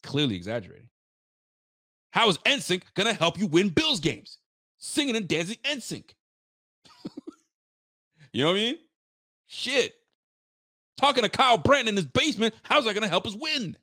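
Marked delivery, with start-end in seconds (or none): 2.1-13.8 higher, barely holding in a laugh; asking through amused giggles; laughing disbelief. Real, not acted. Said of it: "I can't even keep a straight face".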